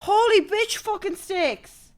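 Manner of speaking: loud, high raging rant at the computer; real meltdown over dead internet; furious shouting. Real, not acted. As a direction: yell it, losing your temper completely. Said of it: "I'm actually getting fucking mad".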